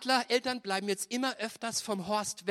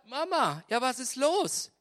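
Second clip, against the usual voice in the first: put-on baby eagle; 6 semitones higher, 5 dB louder, slower than usual. Baby eagle voiced in sermon.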